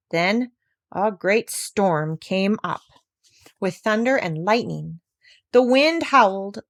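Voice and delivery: slow, building storm telling; dramatic storm narration. A narrator's reading. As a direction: draw out the storm for the children.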